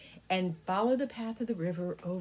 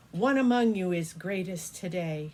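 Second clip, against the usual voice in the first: emperor dragon announcing; 6 dB louder than usual. Acted. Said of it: "But he said".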